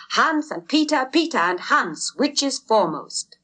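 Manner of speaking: eager high-pitched question; breathless race excitement; excited. A narrator's reading. Crowd asks who leads.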